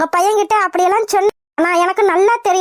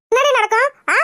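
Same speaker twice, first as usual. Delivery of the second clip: raised, scornful challenge at a higher pitch; angry taunting; 4 semitones higher than usual. Acted. Mother taunting her son's widowed bride, angry and higher. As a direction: jeer at her and push the voice up.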